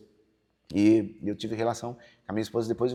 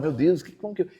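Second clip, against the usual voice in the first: retold panic; 5 semitones higher, 4 dB louder than usual.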